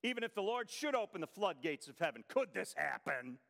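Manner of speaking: mildly mocking, quick run of words; sarcastic scoff. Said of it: "he sarcastically scoffs ... mocks it".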